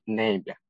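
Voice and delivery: ネイビャン said short and quiet, for five hundred meters; ネイビャン barely stretched; short nearby pointing. Shown as a demonstration. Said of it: "五百メートル先を案内するときは".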